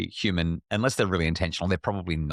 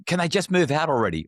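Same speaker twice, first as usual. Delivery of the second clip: put-on high, joking plea to be rid of the kids; mock exasperated plea; 8 semitones higher, 3 dB louder than usual. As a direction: throw it up as a weary joke. Joking about the kids to his wife.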